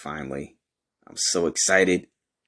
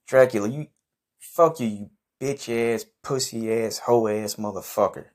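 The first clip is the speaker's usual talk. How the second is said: angry insults; 3 semitones higher than usual. Acted. Cursing out departed Dracula.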